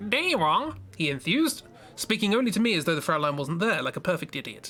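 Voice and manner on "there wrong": odd, very high, slightly nasal character voice. Reading a story aloud, voicing a character in a weird, slightly nasal voice. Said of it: "so I'll just sort of do a weird one".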